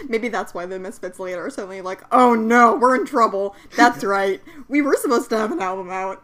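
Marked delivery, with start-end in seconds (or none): 2.1-6.2 panicked shout. Acted. Misfits panicking, acted quote.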